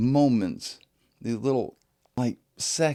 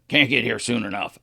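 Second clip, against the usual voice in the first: louder, gruff grump imitation; put-on grumpy worker voice; grumpy attitude; 4 semitones higher, 7 dB louder than usual. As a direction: imitate a grouch grumbling forcefully. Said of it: "this kind of attitude is very comical".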